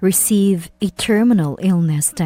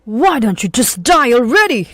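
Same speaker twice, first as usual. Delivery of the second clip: higher, mocking cruel voice ending in a laugh; sneering husband; 5 semitones higher, 3 dB louder than usual. Husband to wife, sneering high mocking taunt. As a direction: taunt her with contempt.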